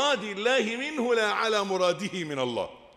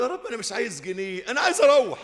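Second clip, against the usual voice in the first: exasperated plea; 4 semitones higher, 5 dB louder than usual. Retold or imitated. Exasperated prayer after two hours.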